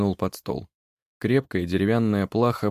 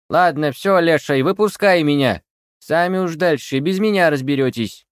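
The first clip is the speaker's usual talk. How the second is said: high, loud grumbling witch; old witch taking her leave; bossy crone; 8 semitones higher, 7 dB louder than usual. A narrator's reading. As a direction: order him out like a cranky hag. Witch bossing the wood spirit.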